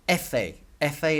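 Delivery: "F A" said EH-feh; "F A" run together as EH-feh; Spanish letter name. Shown as a demonstration. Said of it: "is how you say F".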